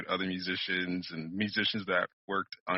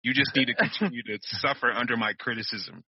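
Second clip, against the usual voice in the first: dramatic martyr; 3 semitones higher, 5 dB louder than usual. Acted. Mock martyr rant.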